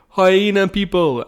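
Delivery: loud, high, drawn-out call; students calling out. Retold or imitated. Imitating students shouting out weird events, loud high call. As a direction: call it out high and stretched like a crowd member. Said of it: "and the students like".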